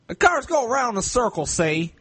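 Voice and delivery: high-pitched mock royal voice; high, put-on regal character; the Queen. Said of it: "Your Majesty, what do you think".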